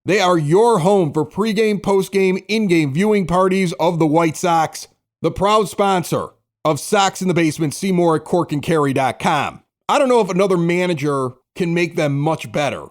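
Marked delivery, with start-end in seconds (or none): 0.0-9.6 upbeat sponsor read, punching the selling points; bright live-read ad for the sports bar. Acted. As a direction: sell it like a radio spot. Host reads sponsor ad.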